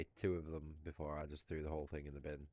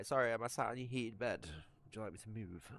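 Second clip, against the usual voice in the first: mock polite to the dog; 5 semitones higher than usual. Real, not acted. Apologising to the dog for sitting on its bed, higher mock-polite pet voice. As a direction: tease the dog with fake politeness.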